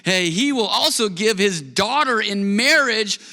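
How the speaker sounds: measured, lifted Bible reading; preacher reading scripture to the congregation. Acted. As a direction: read the passage with weight and care.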